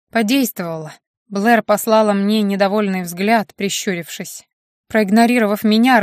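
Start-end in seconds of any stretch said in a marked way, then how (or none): none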